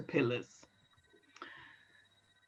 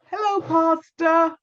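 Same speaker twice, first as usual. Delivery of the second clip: put-on sweet little girl; 7 semitones higher than usual. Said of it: "smiled and said".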